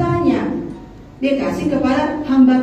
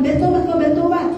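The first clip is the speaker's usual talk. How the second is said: urging repentance; 5 semitones higher than usual. Retold or imitated. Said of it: "Kata Petrus".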